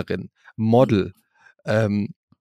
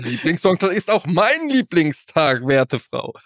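medieval count; 4 semitones higher, slower than usual. Pretend. Spielt weiter den Grafen.

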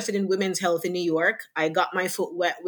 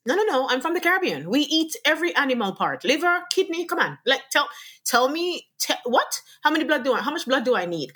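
protesting disbelief; 5 semitones higher than usual. Retold or imitated. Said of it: "And I'm like".

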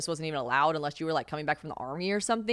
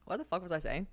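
ordinary talk, nothing marked

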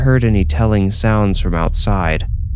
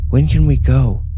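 put-on higher, eager child's question; young boy voice; 7 semitones higher, 4 dB louder than usual. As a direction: ask like an impatient little kid. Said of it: "the kid asked".

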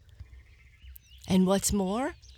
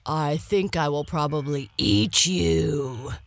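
growl; 4 dB louder than usual. Acted. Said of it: "growled the lion".

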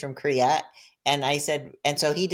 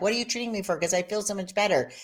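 higher, eager question; excited; 4 semitones higher, faster than usual. Retold or imitated. Patient asking the acupuncturist, mock excited. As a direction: gush like a thrilled patient.

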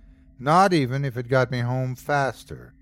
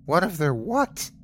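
demanding; 5 semitones higher than usual. A narrator's reading. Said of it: "I demanded".

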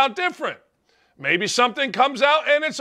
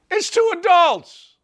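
emphatic shout; 8 semitones higher, 4 dB louder than usual. Real, not acted. Heated rant peak.

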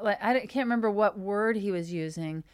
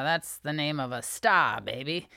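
lower, lightly put-on showbiz voice; mock showbiz type; 5 semitones lower than usual. Approving Ashton's name as a star's, mock showbiz voice. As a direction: drop low like a mock talent agent.

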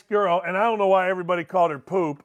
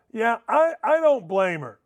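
ordinary delivery

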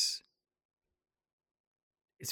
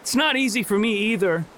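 higher, rising into anguished anger; furious outburst; 8 semitones higher than usual. Acted. Lizzie confronting Jay about his dead sister, anguished and furious. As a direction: hurl it at him through tears.

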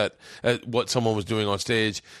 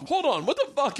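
much higher, words squeezed out through laughter; real laughter cracking up the story; laughing while telling; 12 semitones higher than usual. Real, not acted.

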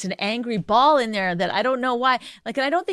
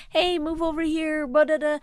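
friendly easy tone; 5 semitones higher, 3 dB quieter than usual. Retold or imitated. Wife showing how a good-mood person asks, light and friendly. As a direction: nudge someone over kindly. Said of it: "They use a different tone".

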